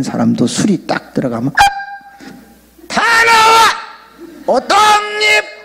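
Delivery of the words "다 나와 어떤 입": high, drawn-out mock drunken hollering; hammed-up drunken shouting, very high-pitched; loud drunk. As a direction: imitate a rowdy drunk bellowing at everyone. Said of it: "막 이러면서 이렇게 목소리가 커지고".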